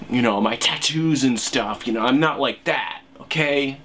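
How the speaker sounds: mildly put-on urban hipster, pitch lifting; lumbersexual hipster. Urban liberal hipster insisting he's not a redneck, lightly put on. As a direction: play a lumbersexual hipster justifying himself, lightly voiced. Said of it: "That's what I imagine that these sorts of lumbersexual hipster".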